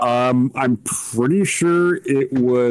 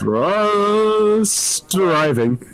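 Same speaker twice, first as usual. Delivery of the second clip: very slow, higher, stretched-out word; drawn-out mock call; 9 semitones higher, much slower than usual. Joking about British lovers, drawn-out mock call. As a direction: draw THRUST out in a long held call.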